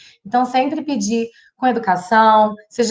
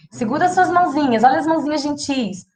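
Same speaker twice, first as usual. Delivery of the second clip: put-on babyish talk; 3 semitones higher than usual. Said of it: "falar pro meu filho adolescente assim".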